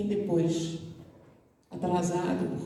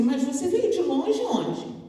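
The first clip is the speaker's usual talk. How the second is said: put-on higher, slow childlike question; curious little girl; 5 semitones higher, slower than usual. A little girl asks the stranger where he comes from, childlike and curious. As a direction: ask like a wide-eyed child.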